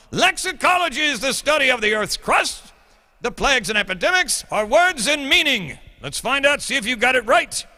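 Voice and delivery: hammed-up English accent lecturing students. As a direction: play a schoolmaster lecturing in a put-on English accent. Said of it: "the English accent".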